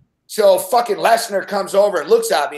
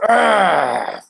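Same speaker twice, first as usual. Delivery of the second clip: mild growl; 3 dB louder than usual. Retold or imitated. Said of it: "Brock Lesnar fucking just goes".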